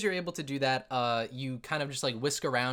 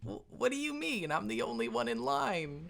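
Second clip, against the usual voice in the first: dwarf voice; 5 dB quieter than usual. Acted. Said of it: "he's like".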